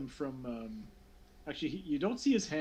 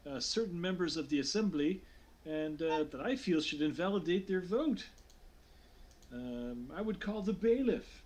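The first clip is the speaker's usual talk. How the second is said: lightly voiced assembly speaker; 3 semitones higher than usual. Official at the podium accusing assembly members, lightly acted. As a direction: address the assembly with a hint of formality.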